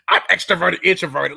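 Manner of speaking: laughing mimic of trendy talk; mocking, laughing. Host mocking people online, laughing mimicry. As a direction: mimic them and crack up. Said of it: "people be talking about".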